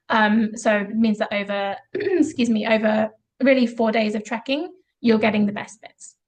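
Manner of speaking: rough, gravelly throat. Real, not acted. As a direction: talk through a gravelly throat. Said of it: "apologies for my gravelly voice".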